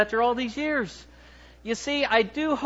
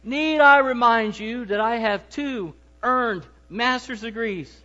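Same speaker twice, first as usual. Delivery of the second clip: a lightly put-on Southern accent, slowed down; mock Southern accent; 2 semitones higher than usual. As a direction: play a pompous husband in a weak Southern accent. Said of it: "with the best Southern accent that I can dream up".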